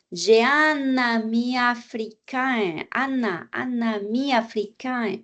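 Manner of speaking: "un ami" slowly joined as "u-nami"; linked consonant. Shown as a demonstration. Teacher gives enchaînement example, linked. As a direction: carry the n of "un" onto "ami", stretched out. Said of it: "Enchaînement".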